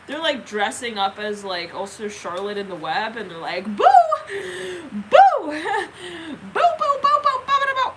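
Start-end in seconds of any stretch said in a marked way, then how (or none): 3.7-7.9 high, loud volley of boos; playful booing. Acted. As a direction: pop out boos to amuse a baby. Parent playfully spooks crying kid.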